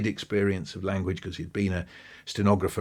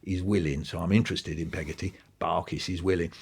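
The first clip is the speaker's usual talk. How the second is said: shy Barkis; 3 semitones lower, 4 dB quieter than usual. Retold or imitated. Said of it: "Barkis, that's himself".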